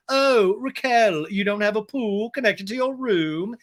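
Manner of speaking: James impression. Guest needling his ex about her room, mock taunting. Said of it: "and James is like".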